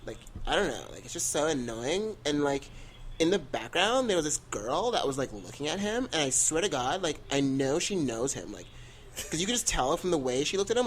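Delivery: put-on gossiping valley girl, rising to a shriek. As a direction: gush and rant like a valley girl. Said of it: "talking like a white girl".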